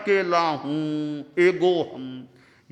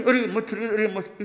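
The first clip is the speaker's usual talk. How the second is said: mock impatient cry; 5 semitones higher, 4 dB louder than usual. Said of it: "अधीरता से कर बैठे".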